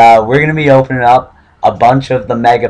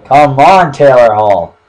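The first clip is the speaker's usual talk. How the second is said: loud, higher urging shout; cheering the pack on, louder; excited plea; 4 semitones higher, 6 dB louder than usual. Real, not acted. Pleading for a good pull.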